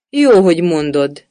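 a mild shout across the kitchen; kiáltva. A narrator's reading. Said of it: "kiáltott a hercegnő a szakácsnénak". (a hercegnő a szakácsnénak kiált)

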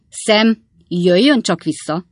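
drawn-out plea to come back; calling after. A narrator's reading. Master calling after departing servant, slow loud call. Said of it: "kiáltott utána Pickwick úr".

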